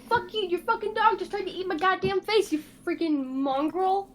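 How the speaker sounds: high, loud furious cursing; angry character retort. Acted. Blomo cursing at the goblins over the dog. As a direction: snarl it at the goblins.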